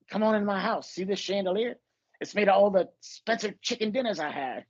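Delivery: lightly voiced braggy rich guy; a hint of a show-off showing off his house; Dave Chappelle bit. Quoting the sketch to a friend, lightly boastful. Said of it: "that Dave Chappelle sketch".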